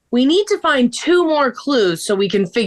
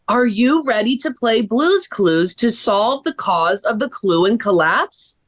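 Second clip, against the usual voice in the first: mysterious message reading. Acted. Elle reads the anonymous email to friends, slow and mysterious. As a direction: read it out slowly like an ominous riddle.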